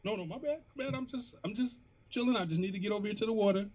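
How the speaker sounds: high, meek, apologetic voice; timid cat voice. Retold or imitated. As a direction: back off nervously like a scared kitten. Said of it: "she'd be like".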